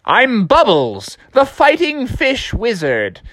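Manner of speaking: slow, grandly drawn-out wizard introduction; Bubbles. Acted. Fish introduces himself to the bear, slow showy wizard voice. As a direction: draw the name out slowly for show. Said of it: "And the fish was like".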